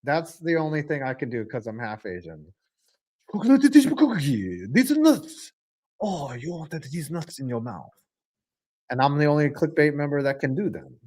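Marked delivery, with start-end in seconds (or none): 3.3-5.5 high-pitched hammed-up Asian accent; mock Asian accent. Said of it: "I can actually do Asian accents". 6.0-7.9 put-on soft caricatured Asian accent; mock Asian accent. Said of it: "I can actually do Asian accents".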